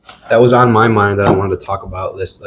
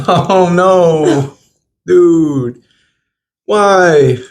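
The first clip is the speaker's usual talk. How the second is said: disgusted; 7 semitones higher, much slower than usual. Real, not acted. Reacting to a bad taste.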